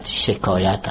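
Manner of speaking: شکایت carefully said as she-kaa-yat; correct pronunciation. Shown as a demonstration. Linguist demonstrating for the interviewer, شکایت as she-kaa-yat. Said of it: "تلفظ درست شکایت".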